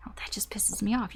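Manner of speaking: soft whisper, no voice at all; whispered aside. Retold or imitated. Reader repeating the client's annoyance as a whisper. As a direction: breathe it like a private grumble.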